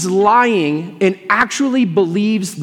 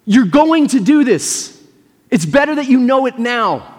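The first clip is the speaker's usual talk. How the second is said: higher-pitched, insistent retold urging; acted urgency, pitched up; urgent imitated plea; 4 semitones higher than usual. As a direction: imitate trying to shake someone to their senses. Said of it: "grab Peter and shake him and say".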